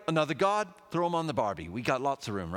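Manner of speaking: put-on half-hearted Australian accent; a hint of a bad Australian accent; attempted Australian accent. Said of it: "supposed to be an Australian accent".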